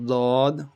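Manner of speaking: dod pressed on the right; right-side dod. Shown as a demonstration. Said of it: "right side".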